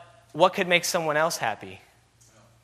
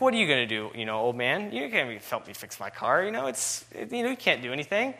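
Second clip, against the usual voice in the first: put-on mad young man; 3 semitones higher than usual. Young driver snapping at the old man who offers help, building anger. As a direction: snap at the old man, getting heated. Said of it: "so, you know, he was mad".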